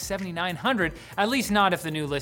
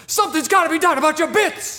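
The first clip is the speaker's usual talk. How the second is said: loud high call; 10 semitones higher, 8 dB louder than usual. Acted. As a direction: shout it across the room. Calling out to Marty.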